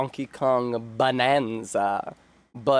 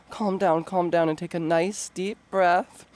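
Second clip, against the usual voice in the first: mock calming; 4 semitones higher than usual. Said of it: "I should have done an angry read".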